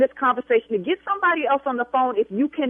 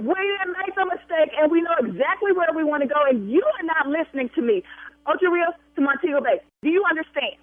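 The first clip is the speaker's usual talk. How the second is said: shouting; 2 semitones higher than usual. Real, not acted. Caller yelling back.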